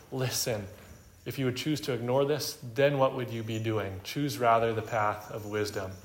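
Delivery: earnest appeal. Retold or imitated. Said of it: "emphatically calling him to heed wisdom".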